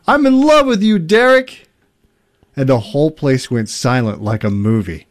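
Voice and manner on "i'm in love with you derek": high falsetto mock shout. Best man confesses love to the groom, high mock shout. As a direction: imitate a dramatic outburst, pitched way up. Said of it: "best man shouted".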